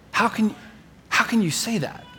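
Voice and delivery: high-pitched, baffled protest; incredulous. Acted. Peter challenging Jesus' reassurance, incredulous. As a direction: question it in high disbelief.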